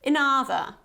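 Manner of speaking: "Another" with the first vowel clipped very short; brief "uh" before "NUH-thuh" in "Another"; very short schwa. Shown as a demonstration. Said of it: "It's very short".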